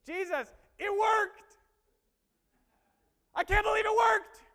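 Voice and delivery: high, drawn-out shout of amazement; loud, elated acted yell; excited disciples. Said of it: "They came back all excited".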